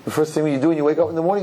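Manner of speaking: usual speaking voice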